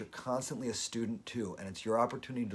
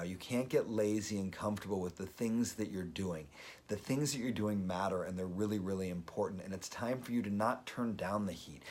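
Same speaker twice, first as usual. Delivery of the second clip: self pep talk; 3 semitones lower than usual. Real, not acted. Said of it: "listen to the way that I say them to myself".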